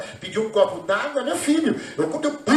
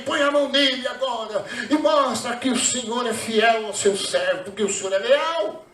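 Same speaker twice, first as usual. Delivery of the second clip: oração reencenada. Retold or imitated. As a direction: plead with God as if praying it over. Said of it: "eu fiz uma oração a Deus". (oração fervorosa, reencenada)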